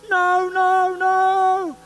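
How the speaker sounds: high, loud frantic no; panicked refusal. Retold or imitated. Terrified jumper refuses the instructor, high panicked cry. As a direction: cry out in terror at the door. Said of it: "he goes".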